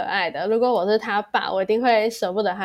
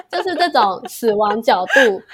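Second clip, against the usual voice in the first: laughing; 5 dB louder than usual. Real, not acted. Recalling dad's selfie.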